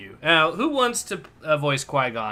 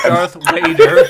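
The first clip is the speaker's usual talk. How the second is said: high, drawn-out Darth Vader; excited; 13 semitones higher, 9 dB louder than usual. Real, not acted. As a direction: call out the name with excitement. Reading the name with excitement.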